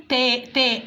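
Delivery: "تاء" with a spread smile and thin vowel; smiling light ta. Shown as a demonstration. Teacher has listeners try it, smiling light "تاء". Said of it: "مبتسم".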